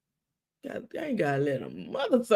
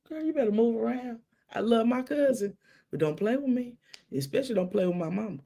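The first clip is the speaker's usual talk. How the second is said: sassy threat, lightly raised; firm warning; 5 semitones higher than usual. Retold or imitated. To the cousin in church, a sassy warning. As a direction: warn her off without shouting.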